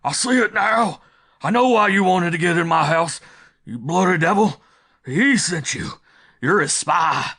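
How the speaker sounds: high, loud, frantic accusation; terrified screaming. A narrator's reading. Householder accusing visitor of spying, terrified screaming. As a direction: scream it out in panic and fury.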